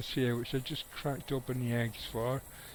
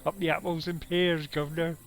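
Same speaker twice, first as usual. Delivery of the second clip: Cockney; 3 semitones higher than usual. Retold or imitated. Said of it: "It's like Cockney".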